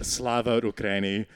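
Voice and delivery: lightly imitated Russian-accented meerkat; mock advert in a Russian accent. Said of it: "they've got Russian accents".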